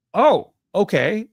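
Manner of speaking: put-on slow, high, drawn-out kid's reply; childlike okay. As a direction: answer like an unbothered little kid. Young kids answer their dad.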